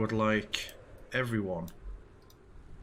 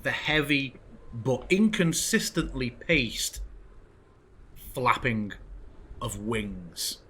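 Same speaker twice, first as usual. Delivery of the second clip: measured, suspenseful scene-setting; game master narration; slower than usual. A narrator's reading. Game master describing approaching heavy wingbeats to players, measured narration. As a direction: narrate with deliberate pauses between phrases.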